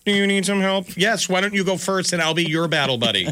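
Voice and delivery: high mock soldier voice; squeaky scared soldier; mock timid soldier. Soldier voice in skit.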